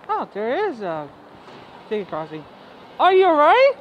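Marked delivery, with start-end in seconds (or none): 3.0-3.7 loud, high call of alarm; startled shout. Real, not acted. Startled shout at someone near tracks.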